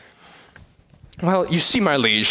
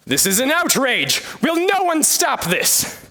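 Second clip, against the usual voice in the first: outraged appeal; 6 semitones higher than usual. Acted. Protester appeals to wedding guests, indignant and high. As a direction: demand that someone act.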